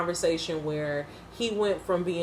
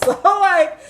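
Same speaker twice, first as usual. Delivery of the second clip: loud burst of laughter; laughing; 11 semitones higher, 10 dB louder than usual. Real, not acted. Laughing at own joke.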